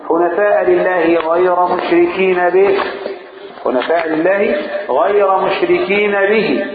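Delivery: slow, measured chanting of the verse; slow Quranic chant; Quran recitation. Acted. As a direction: intone it like tajweed.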